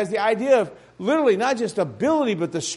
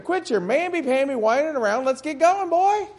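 higher, brisk scolding push; impatient God; 5 semitones higher than usual. Retold or imitated. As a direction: hurry the whining boy along. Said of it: "He said".

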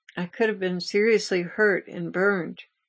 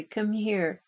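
a soft, tender call, a little quieter; 2 semitones higher, 3 dB quieter than usual. Retold or imitated. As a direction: gently draw her close, understated. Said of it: "He said very tenderly".

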